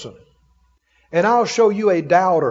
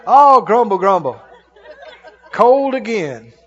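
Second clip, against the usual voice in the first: mock grumbling. Looking outside at the weather, mock grumbling. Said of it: "Stumble and grumble".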